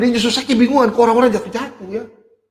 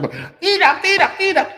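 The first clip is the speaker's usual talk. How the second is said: a hint of a distressed cry, higher; mildly frantic mock refusal; mock stressed person; 10 semitones higher, slower than usual. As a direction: lightly act someone panicking, eyes shut. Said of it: "Itu orang stres".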